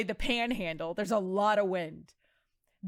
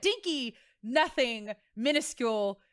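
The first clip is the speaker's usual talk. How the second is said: mock disdain. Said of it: "Can you tell that we were rivals?".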